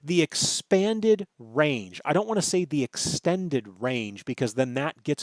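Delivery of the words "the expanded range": slow, deliberate emphasis on "expanded"; stress on EXPANDED. Real, not acted. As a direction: stretch out "expanded" so it stands apart. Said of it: "make sure I stress that word".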